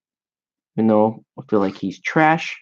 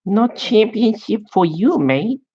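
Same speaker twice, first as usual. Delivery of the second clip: high-pitched put-on Asian accent; exaggerated Asian accent, pitched well up; hammed-up, higher Asian-accent impression; mock Asian accent; 10 semitones higher than usual. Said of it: "I only do good Asian accents".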